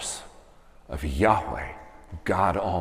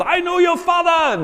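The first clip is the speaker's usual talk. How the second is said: put-on much higher, far-off crazy old monkey cry; Rafiki voice; 7 dB louder than usual. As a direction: shriek it like a wild old baboon. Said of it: "and he says".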